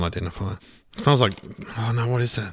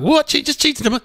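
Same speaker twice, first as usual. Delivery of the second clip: mock amazed shop guy. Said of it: "He's like".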